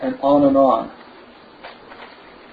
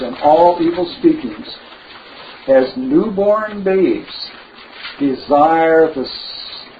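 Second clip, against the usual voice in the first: scripture reading. Acted. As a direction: read the verse aloud to the congregation, lingering on each phrase. Reads First Peter aloud.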